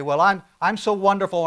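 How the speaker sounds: lightly voiced braggart, preening; mock boastful. Pastor mocks self-proclaimed greats, lightly boastful. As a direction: puff yourself up a little. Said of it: "they begin to display".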